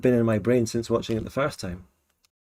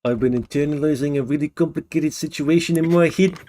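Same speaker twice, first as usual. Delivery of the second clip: New Zealand accent imitation; 2 semitones higher than usual. Mimicking the Kiwi clip just played.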